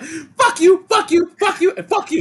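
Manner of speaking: hammed-up angry outburst; mock furious yell. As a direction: yell it in mock fury at everyone. Acted angry character line.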